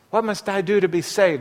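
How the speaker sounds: revival meeting talk. Shown as a demonstration. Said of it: "that's the kind of talk you hear".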